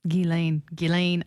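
GHISLAINE said gee-LANE, H silent; demonstrated pronunciation. Shown as a demonstration. Co-host shows how she says it, GHISLAINE as gee-LANE. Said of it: "that was just for effect".

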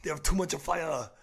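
put-on lightly done Austrian accent, halting as he improvises; Arnold Schwarzenegger. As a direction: do a loose Austrian action-star accent. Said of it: "Do some Arnold?".

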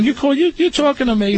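high, tough "you talking to me"; mock tough guy. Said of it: "kept calling me Fat Boy".

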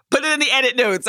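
fast, high, laughing. Real, not acted. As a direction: get it out through laughter. Laughing at being teased.

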